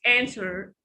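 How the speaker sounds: American answer with a cat vowel and a clear r; answer, American pronunciation; American accent. Shown as a demonstration. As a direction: answer said the American way, flat a, r sounded. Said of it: "but in American accent".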